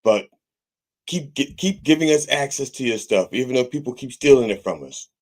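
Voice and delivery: lightly voiced corporate spokesman, mocking; mocking corporate letter. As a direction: sarcastically parrot the company's hollow apology. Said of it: "Just got a letter in the mail saying".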